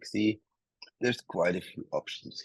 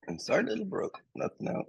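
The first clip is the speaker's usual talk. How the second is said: high gentle voice; 3 dB quieter than usual. Real, not acted. Talking to little brother gently.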